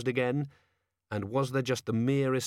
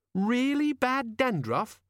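surprised; 13 semitones higher, slower than usual. A narrator's reading. Sudden realisation in dialogue.

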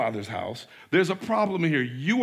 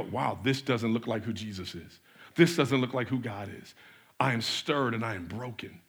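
quiet lament; 4 semitones lower, 4 dB quieter than usual. Retold or imitated. Prayerful confession quote.

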